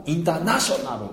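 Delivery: "インターナショナル" stressed on "ナ"; strong stress. Shown as a demonstration. Teacher repeating the stressed version. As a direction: hit "ナ" in "インターナショナル" hard. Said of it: "でも通じます".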